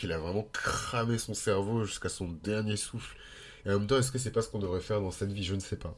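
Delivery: blocked nose, talking through it; nasal, stuffed-up voice. Real, not acted. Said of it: "je parle avec une voix nasillarde parce que je l'ai un peu bouchée".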